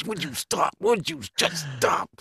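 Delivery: high-pitched mock girlfriend voice; nagging girlfriend. Girlfriend scolding him for messing with store staff, high mock nagging. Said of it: "My girlfriend's always going".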